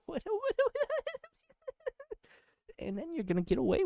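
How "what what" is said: high laughing what, what; real laughter. Real, not acted. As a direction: break up laughing mid-word. Laughing at own joke.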